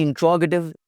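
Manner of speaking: "इंट्रोगेटिव" as in-TROG-a-tiv; the right "इंट्रोगेटिव", with a short ending; correct pronunciation. Shown as a demonstration. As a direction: stress the "tro" in "इंट्रोगेटिव". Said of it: "इंट्रोगेटिव लफ्ज़ है".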